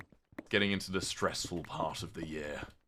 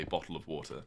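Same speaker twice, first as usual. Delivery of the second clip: British accent; 2 semitones lower, 4 dB quieter than usual. Shown as a demonstration. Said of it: "the way a British person would say".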